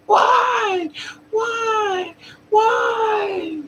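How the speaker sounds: very high drawn-out mock wail; piercing falsetto imitation of a wailing mother; imitated screaming.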